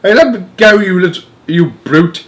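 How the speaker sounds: high, loud pained protest; old woman crying out as her arm is twisted; distressed cry. A narrator's reading. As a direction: yelp it while being grabbed. Grandma struggling with husband.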